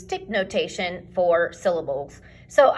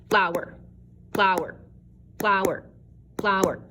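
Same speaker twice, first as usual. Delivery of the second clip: FLOWER as two fast syllables in one beat; quick two syllables. Shown as a demonstration. Teacher showing a two-syllable word, FLOWER said fast. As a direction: say FLOWER quickly, evenly repeated, both syllables run together. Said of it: "Two syllables that are fast".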